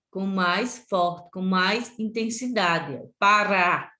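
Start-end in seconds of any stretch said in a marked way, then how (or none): 3.2-3.9 "Pará" with the final "rá" stressed and held; tônica na última sílaba. Shown as a demonstration. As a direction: lean hard on the last syllable of "Pará". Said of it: "É o rá que você fala com mais intensidade". ("Pará" com mais intensidade no "rá" final)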